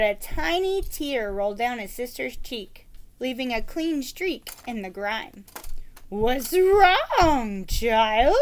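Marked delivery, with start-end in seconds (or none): 6.1-8.4 concerned knight asking gently; a caring knight leaning in; great concern. Acted. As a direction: knight asks the crying girl with concern. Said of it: "asked with great concern".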